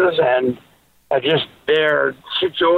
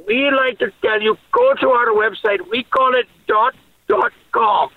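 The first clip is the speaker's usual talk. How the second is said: put-on light Indian accent, higher voice; playful put-on Indian accent; 8 semitones higher than usual. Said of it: "from Delhi".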